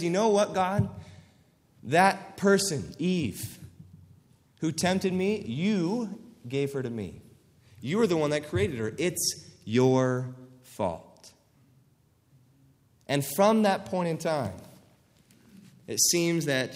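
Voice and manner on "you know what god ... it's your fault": mock Adam blaming God. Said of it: "Notice what he says".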